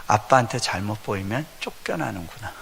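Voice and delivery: normal talking voice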